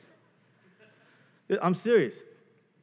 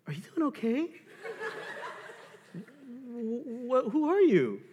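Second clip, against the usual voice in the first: laughing; 8 semitones higher than usual. Retold or imitated. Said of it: "she goes".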